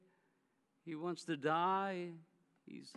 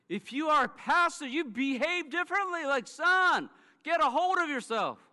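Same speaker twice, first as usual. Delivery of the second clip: higher, louder mom scolding her son; 9 semitones higher, 8 dB louder than usual. Retold or imitated. Mom rebukes her pastor son, higher and louder scolding. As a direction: scold him like a disappointed mother. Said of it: "That's what she's saying".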